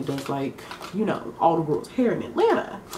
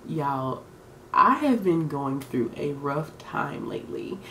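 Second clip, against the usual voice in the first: soft sad sigh; 3 semitones lower, 3 dB quieter, slower than usual. Real, not acted. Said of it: "I literally wanna cry".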